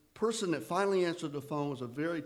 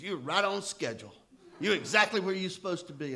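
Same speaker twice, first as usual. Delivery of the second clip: put-on old timer's reassurance; 5 semitones higher, 5 dB louder than usual. Bob reassures the narrator.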